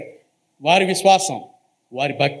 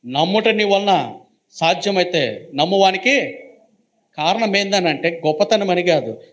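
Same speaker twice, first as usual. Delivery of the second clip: preaching at full force; 3 semitones higher than usual. Acted. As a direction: drive each line home like a preacher. (ఉద్రేకంతో ప్రసంగం, హెచ్చు స్వరంలో)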